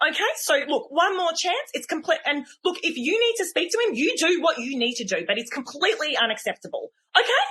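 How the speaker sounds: a hint of a prim, scolding teacher laying down the rules; huffy teacher. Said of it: "goes in a massive huff".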